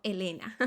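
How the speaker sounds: "Elena" as the American sound of Atlanta; Ts dropped. Shown as a demonstration. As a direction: softly say "Elena" for Atlanta, no hard T. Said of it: "Se escucha algo así como".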